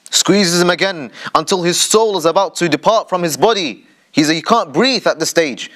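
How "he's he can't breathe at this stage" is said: usual speaking voice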